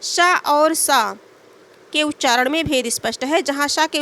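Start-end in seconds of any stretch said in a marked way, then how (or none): 0.0-1.1 slow demo. Shown as a demonstration. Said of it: "आगे देखेंगे".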